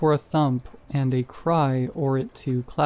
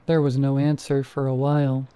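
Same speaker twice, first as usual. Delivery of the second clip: ordinary delivery, nothing marked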